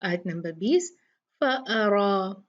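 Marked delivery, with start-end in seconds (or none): 1.4-2.4 फअरा with a thick heavy रा; slow recitation, heavy raa. Shown as a demonstration. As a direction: draw out फअरा, raa full. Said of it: "ये रा भी heavy होगा".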